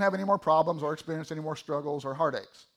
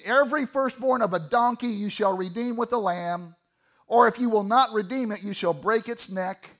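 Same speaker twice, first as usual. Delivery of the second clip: scripture reading; 4 semitones higher, 3 dB louder than usual. Acted. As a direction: read the verse out with deliberate weight.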